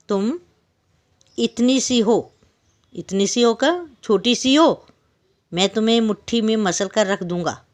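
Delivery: a big lion scolding the tiny fly; angry lion. Acted. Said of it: "तो गुस्से में बोला ना शेर ने।". (गुस्से में धमकाता हुआ शेर, ऊँची तेज़ आवाज़)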